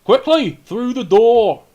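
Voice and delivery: high, loud urgent shout; frantic urging. Acted. Man at the keep door waves fugitives inside, frantic shout. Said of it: "a man at the door waving for you frantically".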